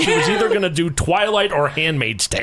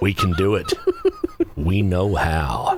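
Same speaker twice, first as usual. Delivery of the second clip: sultry seductive voice, lower pitch; 8 semitones lower than usual. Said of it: "sultry voice".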